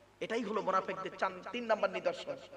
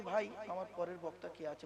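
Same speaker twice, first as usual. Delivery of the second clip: softer, confidential ear-to-ear murmur; secretive aside; 3 semitones lower, 7 dB quieter than usual. Shown as a demonstration. Preacher demonstrating a private word to the imam, hushed. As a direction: say it as if into the imam's ear. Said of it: "আমি ওনার কানে কানে বলছি".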